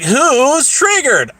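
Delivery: high, drawn-out taunting question; retold needling jab; mock taunt. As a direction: stretch the question to goad them. Acted taunt in retold quarrel.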